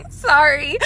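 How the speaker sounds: playfully hammed-up flirting; flirty apology. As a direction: act out batting your eyelashes at someone. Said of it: "bat my eyelashes".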